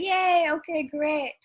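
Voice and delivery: high, loud little cheer; retold excitement. Newcomer hearing she gets a second audition, excited cheer. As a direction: cheer it with acted-out delight. Acts out her reaction to advancing.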